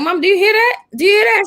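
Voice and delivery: high, eager call to mom; mildly excited reenacted question; retold excited question. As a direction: ask it urgently, pitch jumping up. Excitedly asking her mom, retold.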